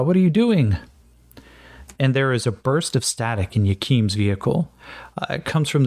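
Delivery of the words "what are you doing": raised, louder, disbelieving question; exasperated surprise. Real, not acted. Player cries out at Jean-Francois after the roll explodes, exasperated. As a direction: groan it at your own character's bad luck.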